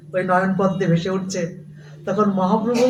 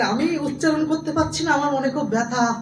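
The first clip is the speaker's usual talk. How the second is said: tearful brahmin; 5 semitones higher, 5 dB quieter than usual. Acted. ও কাঁদছে.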